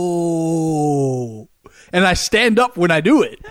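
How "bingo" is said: hugely drawn-out bingo holler; triumphant reenacted yell, endlessly sustained; long yelled call. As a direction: hold the last vowel like an echoing victory cry. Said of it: "So I yell".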